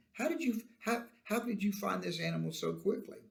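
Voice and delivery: lightly acted puzzlement, restarting the question; doubting question. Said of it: "Isaac is expressing some doubt still".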